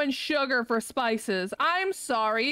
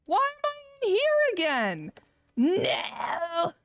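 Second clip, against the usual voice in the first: exasperated whine; 4 semitones higher than usual. Real, not acted. Stuck in kitchen again.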